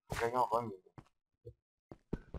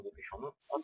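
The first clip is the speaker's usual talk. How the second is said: high squeaky; 9 dB quieter than usual. Pretend. Hurrying the player.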